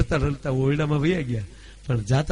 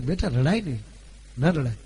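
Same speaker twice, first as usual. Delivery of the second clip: mother soothing; 3 semitones lower than usual. Retold or imitated. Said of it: "કીધું બે વાર".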